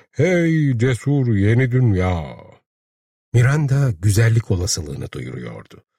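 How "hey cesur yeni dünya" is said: slow, drawn-out rallying cry; call to arms. A narrator's reading. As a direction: stretch it out like a bugle call. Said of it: "askere çağrı borusu çalmaya başladılar".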